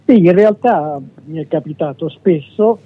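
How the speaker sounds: speaking with a head cold; blocked nose from a cold; stuffy nose. Real, not acted. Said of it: "sono un po' raffreddato".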